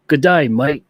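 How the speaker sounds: quick laughing jab at an Australian "Good day, mate"; joking Australian "Good day, mate" to show he isn't British; mock Australian accent. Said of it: "that's Australian".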